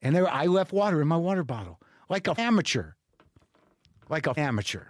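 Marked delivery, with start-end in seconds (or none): 2.1-2.9 disgusted with yourself, voice still up; self-scolding. Real, not acted. Man who left water in his bottle, self-scolding. 4.1-4.9 lower, subdued repeat; deflated self-reproach. Real, not acted. Man who left water in his bottle, deflated self-reproach.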